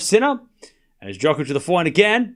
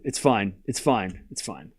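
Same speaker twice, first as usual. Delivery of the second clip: tags 1; 9 semitones lower, 8 dB quieter, slower than usual. Real, not acted. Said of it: "fading reassurance to chat".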